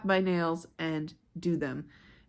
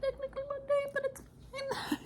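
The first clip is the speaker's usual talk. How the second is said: high squeaky aside; 8 dB quieter than usual. Real, not acted. Joking correction.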